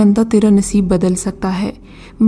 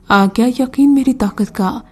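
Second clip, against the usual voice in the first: mocking; 2 semitones higher than usual. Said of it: "اس نے مذاق اڑانے والے لہجے میں کہا".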